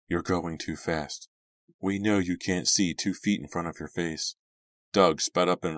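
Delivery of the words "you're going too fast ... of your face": frightened. Acted. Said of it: "sounding frightened".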